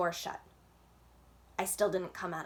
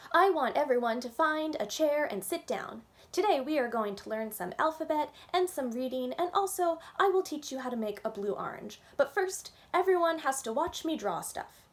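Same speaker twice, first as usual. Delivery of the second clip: higher, louder bossy pretend teacher; be the teacher in charge now; a kid playing teacher to an empty classroom; 6 semitones higher, 3 dB louder than usual. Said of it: "stood on my teacher's chair".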